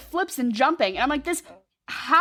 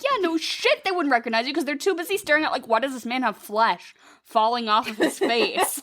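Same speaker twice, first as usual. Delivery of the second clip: sarcastic retort. Retold or imitated. Retorting to actor's quote.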